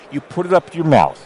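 speaking into a device held at the mouth; muffled. Real, not acted. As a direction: talk muffled behind the tester. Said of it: "that's why you sound muffled now".

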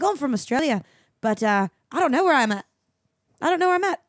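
Australian surfer. Retold or imitated. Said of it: "this weird Australian surfer".

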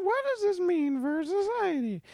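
very high earnest schoolkid voice; mock serious voice. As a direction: ham up the solemn question. Mocking her school essay.

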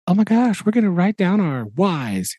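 high-pitched, over-eager pep; mock excited. Teacher mimicking peppy colleagues at team building, mock excited. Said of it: "really excited".

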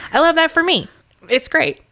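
high and bright gush; excited. Real, not acted. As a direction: squeal it with delight. Gushing list of loves.

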